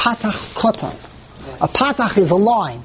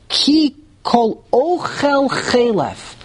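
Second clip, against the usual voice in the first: slow "Ki Kol Ochel Chelef", "Ochel" as o-KHEL; stress on last syllable; 3 semitones higher, much slower than usual. Shown as a demonstration. Teacher quoting the verb example, deliberate end-stressed "Ochel". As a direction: spell out "Ki Kol Ochel Chelef" slowly, weighting "chel". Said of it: "You put the emphasis on the end".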